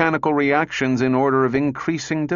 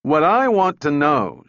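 loud, raised demand; shouting; 4 semitones higher, 5 dB louder than usual. Acted. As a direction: shout it at him. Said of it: "shouted Donovan".

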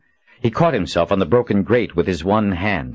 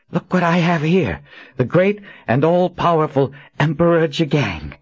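higher, teeth-clenched gloating; through gritted teeth; 9 semitones higher than usual. A narrator's reading. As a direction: grind it out triumphant. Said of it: "she said through gritted teeth".

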